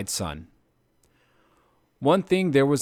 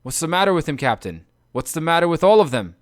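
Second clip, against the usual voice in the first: alarmed; 5 semitones higher, 6 dB louder than usual. Acted. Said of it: "Polites was alarmed".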